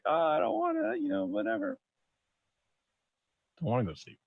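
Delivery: high put-on whiny toddler voice. Dad imitating his cranky toddler daughter, high whiny voice. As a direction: pitch it way up like a pouty kid. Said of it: "she just goes like".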